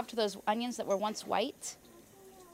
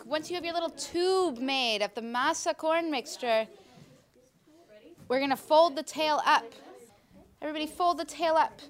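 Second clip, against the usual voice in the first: kindergarten teacher voice; 3 semitones higher, 5 dB louder than usual. Real, not acted. Teacher instructing kids loudly.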